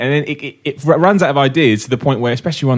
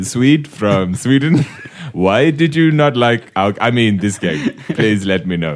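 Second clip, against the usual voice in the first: hammed-up, slow Swedish accent; badly faked Swedish accent; slower than usual. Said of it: "Put on an accent".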